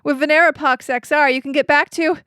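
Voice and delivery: slick TV drug commercial announcer; pharmaceutical ad voice. Pretend. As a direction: sell it like a pharma ad. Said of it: "I'm gonna do my pharmaceutical ad voice".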